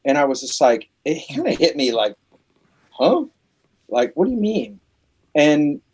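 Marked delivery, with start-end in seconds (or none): 2.9-4.8 high, puzzled huh, then a confused question; baffled huh. Retold or imitated. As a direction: sound genuinely thrown by the quote. Confused reaction to quote.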